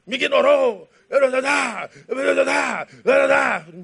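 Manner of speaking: the sergeant rages that the lieutenant ignored him, hammed-up outraged shout; outraged outburst.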